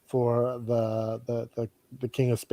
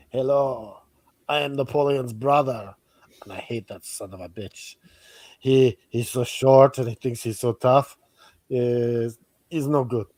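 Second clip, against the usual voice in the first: put-on a faint, half-hearted English accent; 2 semitones lower than usual. Napoleon's brother griping about him in a weak English accent. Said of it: "I was gonna do an English accent for Napoleon".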